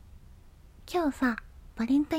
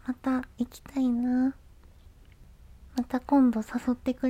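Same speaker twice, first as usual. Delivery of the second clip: whispering. Acted. Wistful wish after cat cafe.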